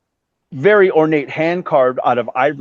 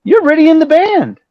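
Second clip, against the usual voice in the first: much higher, put-on laid-back dude voice; imitating Vince; 14 semitones higher, 5 dB louder than usual. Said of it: "He goes".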